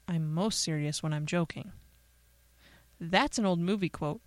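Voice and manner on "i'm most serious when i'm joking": low, deadpan serious voice; mock serious. Host slips a movie quote to listeners, deadpan serious. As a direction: say the joke dead serious, pitched down. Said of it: "say it in a serious voice".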